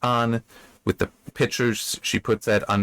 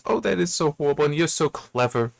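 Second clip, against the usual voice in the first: higher-pitched, lightly acted lament; mock dismay; 5 semitones higher than usual. Maid commiserating with weeping Elsie over the pickaxe, mock dismay. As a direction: play the maid swept up in mock sorrow.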